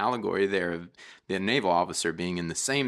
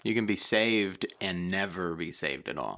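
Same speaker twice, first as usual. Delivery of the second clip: measured, more deliberate delivery; repeating for clarity. Real, not acted. Co-host repeating the line after "what's that?", careful and deliberate. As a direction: spell the thought out carefully for someone who missed it. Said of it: "Or, what's that?".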